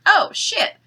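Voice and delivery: high excited exclaim. Retold or imitated. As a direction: blurt it out, suddenly thrilled. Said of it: "And I was like".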